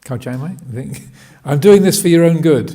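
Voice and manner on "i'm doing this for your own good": lightly acted scolding teacher, loud and quick; fast, higher, emphatic mock justification; hint of a self-righteous teacher; teacher before punishing. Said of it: "what the teachers would say".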